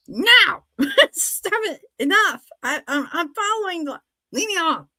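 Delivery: high, laughing, mock-stern scolding. Mother scolds her son in the car, high and laughing. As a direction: scold him while you can't stop laughing. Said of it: "getting mad".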